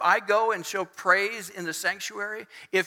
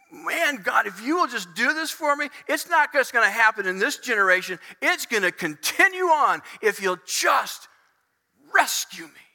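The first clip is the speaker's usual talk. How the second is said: raised, imploring prayer voice; pleading prayer; 2 semitones higher than usual. Acted. Praying to God to rescue him, pleading. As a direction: bargain with God, building in force. Acting out a desperate bargaining prayer.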